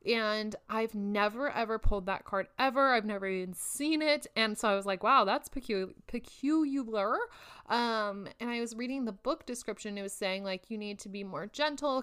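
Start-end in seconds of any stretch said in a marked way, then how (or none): 5.0-7.2 mock puzzled wonder. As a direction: stretch out peculiar like you're mildly baffled. Retelling her reaction to card.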